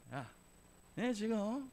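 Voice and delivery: a half-hearted retold telling-off; scolding. Young preacher scolding bored kids, mock scolding. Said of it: "막 뭐라고 했어".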